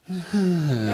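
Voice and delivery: feeble hum in place of a roar; half-hearted roar. Retold or imitated. Storyteller mocks teachers at a conference, half-hearted hum. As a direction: mimic reluctant grown-ups barely roaring. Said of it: "they all roared and was like".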